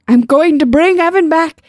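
high, slow, hammed-up proclamation; grand shout. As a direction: shout it like a would-be wizard. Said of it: "Brian shouted".

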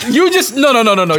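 shocked laughter. Real, not acted. Laughing disbelief.

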